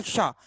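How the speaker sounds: "शा" with a hushing rush off the palate; spitting "sh". Shown as a demonstration. Teacher answers how to say it, spitting palatal "शा". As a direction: say "शा" as if spitting at someone. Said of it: "जैसे थूक रहे हो किसी पर".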